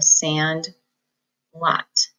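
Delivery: "sand" then "lot" apart; each part on its own; slow decoding; syllable split. Shown as a demonstration. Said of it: "compound word".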